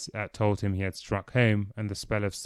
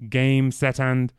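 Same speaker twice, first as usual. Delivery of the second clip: crisp, formal umpire call, a bit louder; tennis umpire; 3 semitones higher, 4 dB louder, slower than usual. Acted. Dorian tries a tennis umpire impression, a hint of umpire. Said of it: "decided to try a tennis umpire".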